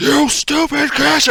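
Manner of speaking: very high, furious, enraged yell. Voicing a character who starts shouting at an enemy caster: furious shouting. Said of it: "he starts just shouting at him".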